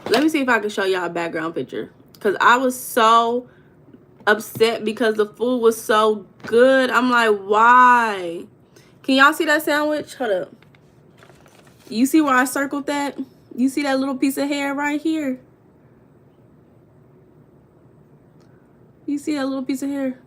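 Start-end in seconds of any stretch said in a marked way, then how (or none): 2.2-8.4 loud, exasperated rant; fed-up outburst over ruined breakfast; upset. Real, not acted. Upset over hair in food. 9.0-20.2 indignant showing. Real, not acted. Showing hair in sandwich.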